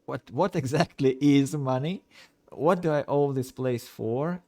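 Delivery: lightly voiced confused detective. Player playing amnesiac detective.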